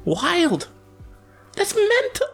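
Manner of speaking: high, bright mock British exclamation; British accent. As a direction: say it like a Brit, high. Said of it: "That's a British way".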